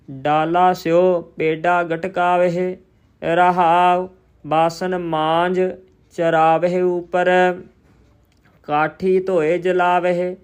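slow, measured chant-like reading on a level tone; scripture recitation. Shown as a demonstration. Teacher reciting Gurbani for learners, slow measured recitation. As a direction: recite each phrase deliberately, drawing out the vowels.

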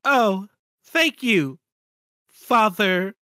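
slow robotic thanks; text-to-speech voice. Acted. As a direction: read like a computer, slowly. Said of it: "Two text-to-speech voices read out".

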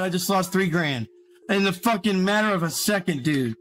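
rattled after a big loss; shaking. Real, not acted. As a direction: voice shaky from shock. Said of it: "I'm shaking right now".

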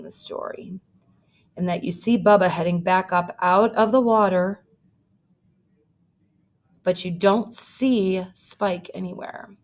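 lively read-aloud storytelling; story narration. A narrator's reading. Teacher reading a picture book to her class, lively.

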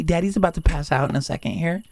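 ordinary talk, nothing marked

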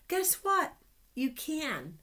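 playful tease. Acted. Teacher teasing the children, high and playful. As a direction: tease the kids before the big reveal.

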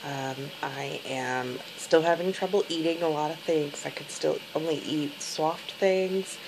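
sore throat voice after surgery; speaking carefully through a sore throat; after tonsillectomy. Real, not acted. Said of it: "day twelve after my tonsillectomy".

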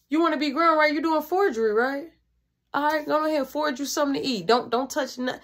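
a mother scolding her son over food, a touch stern; scolding mom. Retold or imitated. Mom scolding son for cooking without asking, mild mock scolding. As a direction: scold him like an irritated mom.

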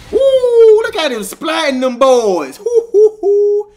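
high whooping laugh; loud victory whoop. Real, not acted. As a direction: celebrate a big combo. Cheering kills.

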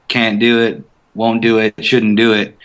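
sloppy, slurred 'can't do it' with the t's dropped; lazy sound. Shown as a demonstration. Actor showing the lazy speech he avoided for Connor. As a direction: let the words run together lazily. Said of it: "it's more of a lazy sound".

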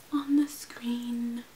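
slow whispered echo; playful whispered repeat. Pretend. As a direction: whisper it back slowly.

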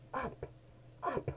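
rising up. Acted. Rising excitement.

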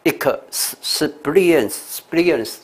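"experience" built up as ik, s, then spee-rience; sounds said separately. Shown as a demonstration. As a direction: isolate ik and a hissed s before joining "experience". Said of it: "也是单独要念". (逐个音拆开念 experience)

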